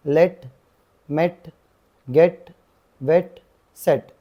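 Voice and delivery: लेट, मेट, गेट, वेट, सेट each with a clear e vowel, said slowly one by one; e sound. Shown as a demonstration. Teacher demonstrating the e vowel for the exam. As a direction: spell out the e vowel in each word. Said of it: "ए बोल के आती है आवाज़".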